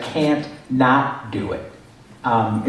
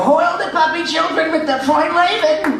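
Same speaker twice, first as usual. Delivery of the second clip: much higher, put-on eccentric director voice; Mister Director voice. Recalling the writer's Animaniacs role, high squeaky director impression. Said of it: "recurring character on Animaniacs, who is the director, Mister Director".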